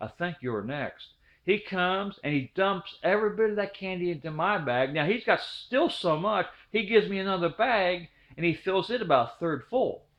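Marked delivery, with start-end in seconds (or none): 0.0-1.0 soft, hushed whisper. Retelling what a cousin whispered while trick-or-treating: imitating a whisper. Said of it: "my cousin whispers to me".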